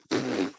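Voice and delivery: soft puff of air through the lips; dismissive pfft. Retold or imitated. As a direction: imitate a low, deflating pfft. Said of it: "they literally just went".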